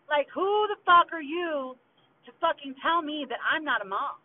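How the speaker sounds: furious. Real, not acted. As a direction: demand an answer, outraged. Angry rant at her mother.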